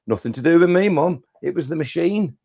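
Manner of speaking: put-on child protesting innocence. Child's excuse to mum acted.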